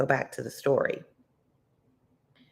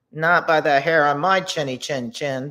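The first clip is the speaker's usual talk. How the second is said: confident little pig; 5 dB louder than usual. Acted. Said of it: "the third little pig replied".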